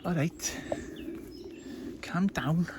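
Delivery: high-pitched Scouse impression; put-on strong Scouse; Liverpudlian accent. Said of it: "Liverpudlian accent".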